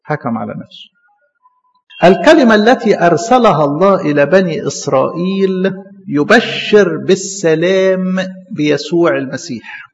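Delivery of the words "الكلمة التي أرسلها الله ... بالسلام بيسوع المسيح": slow, measured reading of the verse; scripture reading. Acted. Preacher reading the Bible verse aloud to his class, slow and measured. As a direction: read the verse out slowly, word by word. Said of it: "بص الآية بتقول إيه".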